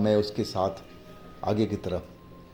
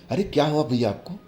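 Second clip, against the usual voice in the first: higher-pitched, urgent concern; worried questioning; 5 semitones higher, faster than usual. Acted. Younger brother checking on his trembling brother, worried questioning. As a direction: ask anxiously, voice lifted.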